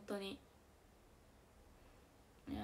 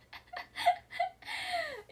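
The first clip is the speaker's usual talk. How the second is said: 1 big laugh; 4 dB louder than usual. Real, not acted. Laughing at the radio app.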